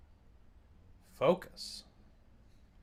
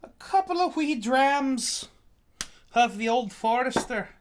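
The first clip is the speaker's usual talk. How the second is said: higher, drawn-out mock-Scottish lilt; terrible Scottish accent; 7 semitones higher, slower than usual. Streamer pouring drams for viewers, terrible Scottish accent. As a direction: put on a bad Scottish accent. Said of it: "I don't know what accent that is".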